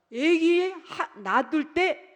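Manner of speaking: slow, high stretched word; long pulpit drawl; drawn out. Real, not acted. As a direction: stretch it for emphasis. Drawn-out emphatic start.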